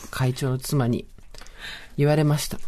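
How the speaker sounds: ordinary talk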